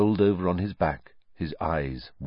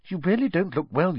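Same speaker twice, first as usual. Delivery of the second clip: anxious Hermione; 12 semitones higher than usual. A narrator's reading. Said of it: "peering anxiously into his face".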